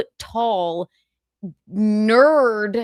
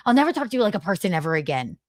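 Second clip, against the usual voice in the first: fast sneering parody of an angry man; mock his huff by rattling it off fast; mocking angry Carl; 4 semitones lower, much faster than usual. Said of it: "Look how mad he is".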